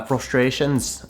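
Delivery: slow, slight Irish lilt; Irish accent. Acted. Host correcting his own word, slipping into a light Irish accent. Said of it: "said that with an Irish accent".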